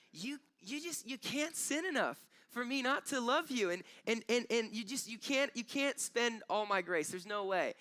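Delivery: high, pleading, loving voice of God; voice of God the Father. Pretend. Father telling us we can't sin enough, high and tender. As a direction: let the Father's love spill out, high and earnest.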